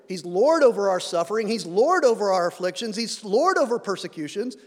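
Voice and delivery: "Lord" punched in each phrase; stress on Lord. Real, not acted. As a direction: lean hard on "Lord" every time it comes. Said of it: "I emphasize the word Lord".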